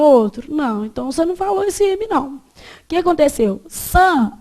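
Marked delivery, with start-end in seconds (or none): 3.7-4.4 san com vogal nasal, sem fechar os lábios. Shown as a demonstration. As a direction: vibrar o nariz no san. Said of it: "você vibrou o seu nariz". (san nasalizado)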